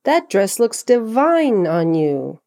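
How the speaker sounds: divine said slowly and carefully, with charm; charming and clear. Shown as a demonstration. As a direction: savour the word divine. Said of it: "give them some charm by pronouncing them clearly".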